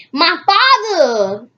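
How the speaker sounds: high, loud, slow anguished exclamation; hammed-up cry of dismay; dramatic cry. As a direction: wail it out in shock. Dramatic reading of narrator's cry.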